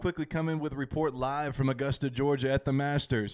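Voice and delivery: golf commentator voice; mock sports announcer. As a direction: report it live from Augusta. Mock live golf report.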